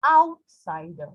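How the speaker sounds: OUT in "Outsider" drawn out and strong; slow "Outsider", weight on OUT; stress on first syllable. Shown as a demonstration. Teacher giving an example of stress, first syllable stressed. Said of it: "it's stressed".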